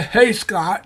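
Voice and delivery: a hint of an old pal saying hello; late friend's greeting. Imitating late friend greeting him, friendly hail. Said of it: "that's how he talks".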